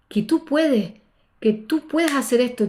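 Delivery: motivational self-talk. Retold or imitated. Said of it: "discurso motivacional a mí misma".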